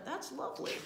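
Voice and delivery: high, lilting admiration; touched and delighted; pleased. A narrator's reading. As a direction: coo over a sweet poem. Bear touched by the poem.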